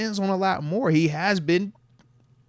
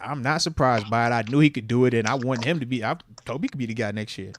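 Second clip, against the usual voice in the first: imitating a blunt answer, pitched lower; flat-out statement; 4 semitones lower than usual. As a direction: state it plainly in a lower register. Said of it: "my man flat out said".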